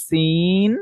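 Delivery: sin said with a sharp s; letter name সিন, crisp s; Arabic letter sin. Shown as a demonstration. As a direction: say সিন with a clear hissing s at the front. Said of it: "সিনটা আমরা কোন জায়গা থেকে উচ্চারণ করি".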